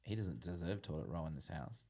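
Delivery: mock stern. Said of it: "you just go".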